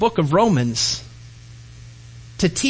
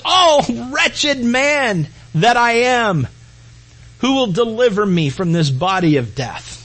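crying out; 2 semitones higher than usual. Acted. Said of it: "Paul gets to a point where he's just crying out".

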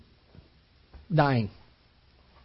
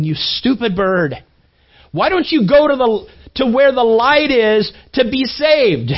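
exasperated; 4 semitones higher, 4 dB louder than usual. Retold or imitated. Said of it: "disconcerting to this father".

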